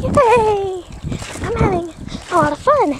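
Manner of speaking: loud, high cheer; excited cheer. Real, not acted. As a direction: shout it out with glee. Cheering mid-jump.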